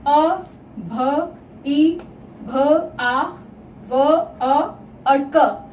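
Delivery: isolated letter sounds with gaps, teacher demonstrating; sound-by-sound breakdown. Shown as a demonstration. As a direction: split अभिभावक into single sounds, pausing after each. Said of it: "वर्ण विच्छेद करके".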